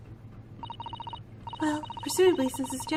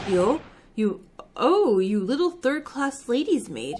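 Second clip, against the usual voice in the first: loud, slow, contemptuous sneer; a burly sailor scorning a lady's maid, loud and slow; angry sailor; 3 semitones lower, 5 dB louder, slower than usual. Acted. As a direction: spit the insult out slowly at her. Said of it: "caught the sailor on a bad day".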